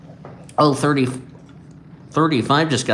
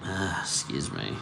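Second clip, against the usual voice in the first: yawning; 6 semitones lower, 11 dB quieter than usual. Real, not acted. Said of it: "Sorry for yawning".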